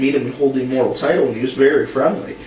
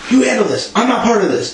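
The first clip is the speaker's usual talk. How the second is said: high-pitched mock refusal; Ric Flair; 8 semitones higher than usual. Host retells wrestler refusing the office boss, mock panic. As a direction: imitate a wrestler backing out, voice raised. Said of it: "Ric Flair's saying".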